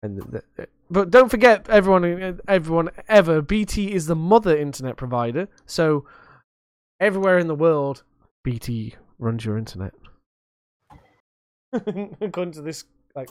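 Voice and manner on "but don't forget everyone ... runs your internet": put-on Russian accent. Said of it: "That was the worst Russian accent ever".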